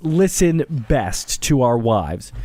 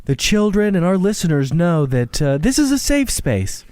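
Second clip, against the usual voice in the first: dad voice; 3 semitones higher than usual. Acted. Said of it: "this is my dad voice".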